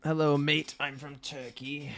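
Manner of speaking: put-on a chat message read in an accidental British accent; failed Turkish accent. Reading a viewer's message in a British accent. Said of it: "that was British".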